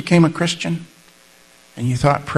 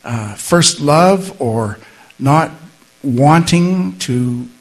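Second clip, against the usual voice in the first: 1 prayer. Acted. Leads the closing prayer.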